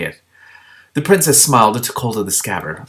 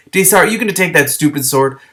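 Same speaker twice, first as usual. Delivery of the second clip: exasperated; 8 semitones higher, 6 dB louder than usual. Acted. Shiar exasperated at Daystar.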